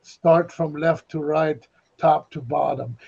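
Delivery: slow, low villain giving orders; villain's instructions. Retold or imitated. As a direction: dictate the clue like a sinister mastermind. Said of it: "and he goes".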